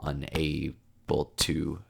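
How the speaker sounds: slow, quiet recitation fading at the end; soft, slow reading of closing verse; poem reading. Acted. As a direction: draw the lines out and let them sink.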